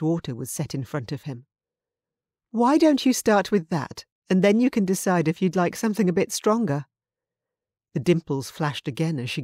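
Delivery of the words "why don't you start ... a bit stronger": lightly voiced friendly barmaid, higher; bartender Nessa. Nessa offers the overheated man water, light friendly bartender voice. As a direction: offer it kindly, a hint of a bartender's lilt.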